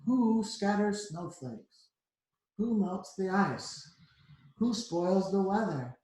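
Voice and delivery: slow, measured poem recital; stage recitation. A narrator's reading. Frederick reciting his poem to the mice as if from a stage, slow. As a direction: declaim it like on stage. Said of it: "as if from a stage".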